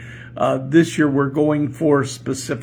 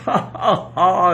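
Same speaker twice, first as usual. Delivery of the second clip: hammed-up laugh; 5 semitones higher, 3 dB louder, slower than usual. Urging audience to laugh.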